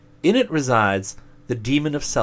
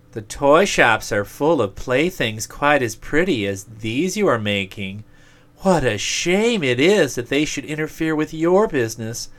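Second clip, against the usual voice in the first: higher, louder persuading demon; envious demon voice; 4 semitones higher, 4 dB louder than usual. Acted. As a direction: tempt him as a jealous demon. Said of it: "Said he".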